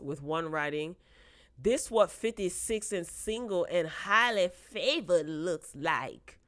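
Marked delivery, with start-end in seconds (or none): 1.6-6.4 read in a funny voice. Pretend. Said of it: "I don't know why I read it in that voice".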